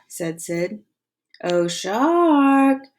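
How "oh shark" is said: calling out. Acted. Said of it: "Monty called through cupped hands".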